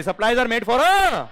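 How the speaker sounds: very slow, loud, word by word; slow dictation. Shown as a demonstration. Teacher repeats the definition for students, slowly dictated. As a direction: spell it out for the class. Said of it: "आवाज ढंग से नहीं आई".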